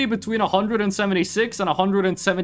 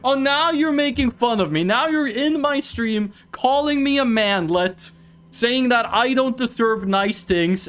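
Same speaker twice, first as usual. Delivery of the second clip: hammed-up wounded protest, pitched up; mock indignation; 4 semitones higher than usual. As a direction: play the bullied victim for laughs. Plays the bullied victim, teasing chat.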